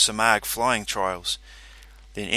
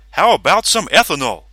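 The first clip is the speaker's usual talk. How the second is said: brain character voice; 7 semitones higher, 10 dB louder than usual. Acted. Brain speaks through speaker.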